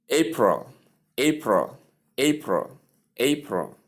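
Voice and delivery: April said as A-pril, two syllables. Shown as a demonstration. Teacher drilling the two syllables of April. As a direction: clear two-beat April. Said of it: "Two syllables".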